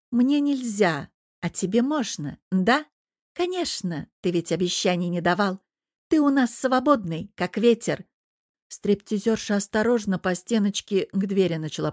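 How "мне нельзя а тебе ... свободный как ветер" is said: jealous reproach. Acted. Jealous girlfriend confronts devil.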